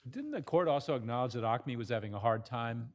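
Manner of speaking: rushed, words running together; hurried question, talking too fast. Real, not acted. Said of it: "I'm talking too fast".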